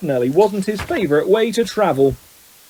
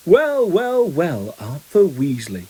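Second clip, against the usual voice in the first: sneering; much slower than usual. A narrator's reading. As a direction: savour a mocking greeting. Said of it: "sneering in just the same way".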